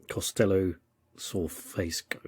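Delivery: Costello Sorfesco sounded out haltingly, Sorfesco slowed and stretched; trying to say an Italian castle name; struggling pronunciation. Shown as a demonstration. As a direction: fumble carefully through Costello Sorfesco. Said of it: "very hard for an English person to say".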